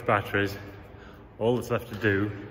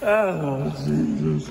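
relieved exclamation; 7 semitones higher, 6 dB louder, much slower than usual. Real, not acted. Relief after tense retrieval.

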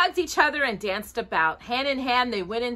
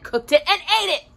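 rattled off; 9 semitones higher, much faster than usual. A narrator's reading. Gruesome list told briskly.

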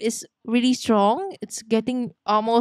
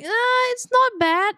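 playing it cool; 13 semitones higher, slower than usual. Min Jun voiced, playing cool.

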